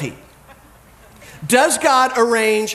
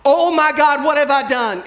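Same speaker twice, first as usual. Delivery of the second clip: mild imitated cry of horror, pitched up; higher, restrained version of a horrified scream; retold scream; 5 semitones higher than usual. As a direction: raise the voice as if retelling a scream. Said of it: "Then she screamed".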